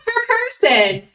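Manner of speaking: high, loud call to halt; re-enacted alarmed shout. Woman to kid raiding the bowl, shouting in alarm. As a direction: shout to stop a kid, retold with gusto. Stopping a kid grabbing packs.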